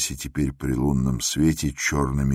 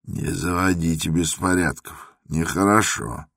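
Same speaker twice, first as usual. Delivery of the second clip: admonishing. Acted. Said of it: "сказал наставительно Никита".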